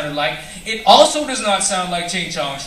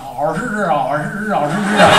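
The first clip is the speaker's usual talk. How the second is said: lightly sung Mandarin calls; 普通话示范; Mandarin sample. Retold or imitated. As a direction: call out teacher in Mandarin. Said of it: "it sounds more like".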